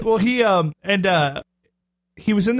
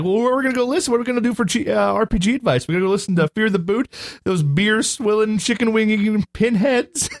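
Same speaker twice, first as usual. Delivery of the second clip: higher-pitched imitation of a complainer; mock griping; 5 semitones higher than usual. Host reading out a listener's jab, mock griping. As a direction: lay on the mock indignation, slowing for the insults. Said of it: "is just giving us crap".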